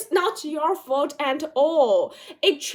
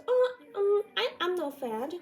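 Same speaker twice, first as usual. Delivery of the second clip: high, flustered denial; defensive denial; 7 semitones higher than usual. Retold or imitated. Answering the bully with a flustered, high denial. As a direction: protest too much that you're not fat. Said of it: "or you will say".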